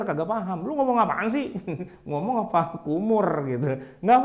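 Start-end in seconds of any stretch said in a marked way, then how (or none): 0.7-1.5 puzzled Arab listener. Retold or imitated. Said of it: "orang Arabnya tuh cengar-cengir". 2.1-3.5 puzzled Arab listener. Retold or imitated. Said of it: "orang Arabnya tuh cengar-cengir".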